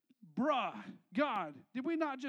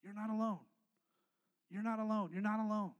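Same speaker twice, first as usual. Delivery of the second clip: gentle repetition; 4 semitones lower, faster than usual. Real, not acted. Repeats softly after shouting.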